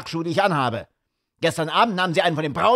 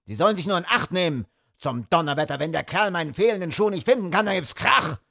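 fast, higher, hot-tempered rant; furious; 6 semitones higher, faster than usual. A narrator's reading. Sir Henry rants at Holmes about his shoe, fast and furious. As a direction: rattle off the threats in a rage. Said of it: "Er war so wütend".

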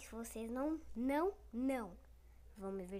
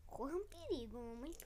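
whisper; 6 dB quieter than usual. Pretend. Whispered warning to mother.

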